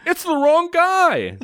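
a shrill mock of a woman bursting in with bad news; Jenny, mocked. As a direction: squeak it out like a flustered cartoon lady. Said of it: "Jenny comes in and says".

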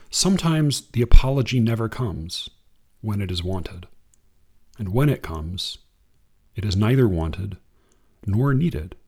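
unhurried reading of verse; poem reading. Acted. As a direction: read it like a poem to an audience. Reads a Kaur poem.

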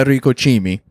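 light Italian accent. Real, not acted. Comic naming a restaurant, slight Italian accent. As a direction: give the name an Italian lilt. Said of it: "I make it like an Italian accent".

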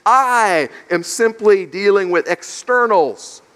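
"I" drawn out and punched at the start; slow line leaning on the opening "I"; stress on I. Acted. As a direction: stretch "I" firmly, then explain deliberately. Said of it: "making an emphasis on himself".

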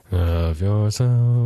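sweet angel choir voice; cherub. Acted. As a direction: sing it like a cherub. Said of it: "his little angel choir voice".

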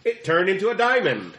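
lightly voiced robot telling a joke; a hint of a chirpy robot; Turtlebot robot voice. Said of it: "I'm sorry, Turtlebot".

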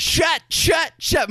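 high-pitched, staccato shouted outburst; overacted movie tantrum. Co-host quoting a favorite overacted movie moment, high hammy shouting. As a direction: fire off the word like a hammy actor. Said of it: "favorite moment of acting in all of movies".

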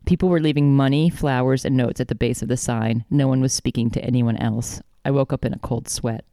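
even, measured audiobook-style reading; story narration. A narrator's reading. Author reading the dream chapter to co-host, measured narration. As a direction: read the dream as steady narration.

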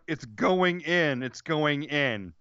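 drawn-out quote. Retold or imitated. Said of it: "she's yelling out".

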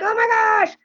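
high-pitched fangirl squeal, acted out; starstruck gush. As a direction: re-enact being thrilled.

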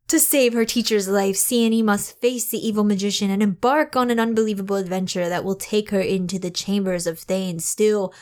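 measured, lightly dramatic blurb read; book summary reading. Acted. Host reads the book summary to co-host, lightly dramatic read-aloud. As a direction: read it out like a back-cover blurb.

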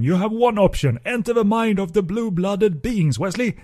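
a hint of Mister Wilson. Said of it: "I think I wrote it down".

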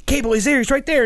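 re-enacted frantic pointing-out; urgent callout. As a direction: call out an enemy to a teammate. Acts out urgent callout in game.

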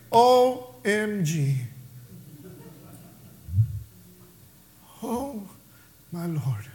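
a soft, slow, stunned hush with "my Lord" barely voiced; overwhelmed. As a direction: let it drain out of you, overwhelmed. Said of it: "He was overwhelmed".

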